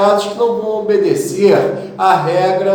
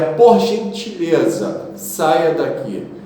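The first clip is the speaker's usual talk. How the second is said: slow example sentence; slower than usual. Shown as a demonstration. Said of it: "E a preposição por".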